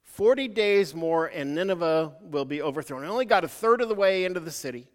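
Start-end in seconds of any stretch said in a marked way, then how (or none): 0.0-3.0 slow proclamation repeated. Retold or imitated. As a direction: repeat the doom warning slowly and deliberately. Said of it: "That was his sermon".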